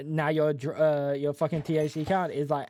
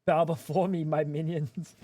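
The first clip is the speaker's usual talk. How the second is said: dark lord; slower than usual. Pretend. Mock command to chat.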